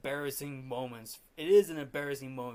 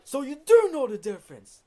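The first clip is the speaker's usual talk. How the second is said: acted-out loud, high-pitched angry retort; mock-furious conductor's shout; angry outburst; 9 semitones higher, 12 dB louder than usual. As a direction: burst out loudly at the student. Retold furious conductor snapping at drummer.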